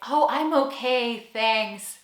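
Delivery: slow, lightly acted polite demurral; indirect American refusal. American avoiding saying no, politely hedging. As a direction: skirt round the no, drawn out. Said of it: "it would be more American to say".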